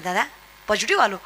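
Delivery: a weak patient breaking bad news; mock sick caller. Sick relative phones brother with his Covid result, feebly. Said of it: "ते म्हणलं".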